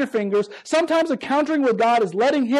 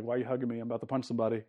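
quoted confusion; 12 semitones lower, 12 dB quieter, much faster than usual. Retold or imitated.

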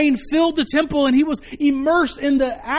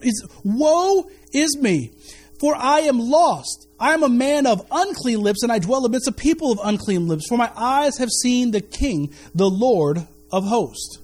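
slow lament; slower than usual. Acted. Isaiah's lament read aloud.

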